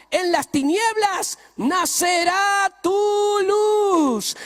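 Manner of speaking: loud, slow, high-flying scripture proclamation; booming pulpit delivery; preaching at full force. Acted. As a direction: thunder the verse over the church. Preacher quoting scripture loudly.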